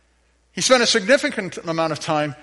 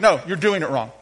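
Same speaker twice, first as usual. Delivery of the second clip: teasing attitude. Shown as a demonstration. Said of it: "say it with an attitude".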